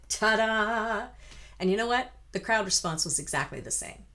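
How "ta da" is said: showy ta-da; triumphant little ta-da; mock ta-da flourish. Shown as a demonstration. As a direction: present it like a magic trick. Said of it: "looked like".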